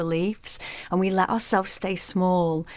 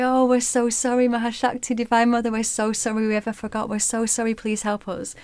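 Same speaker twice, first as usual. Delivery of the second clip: grovel and beg, pitched up; apologetic pleading; 5 semitones higher than usual. Acted. Sages begging Durga's forgiveness, high and groveling.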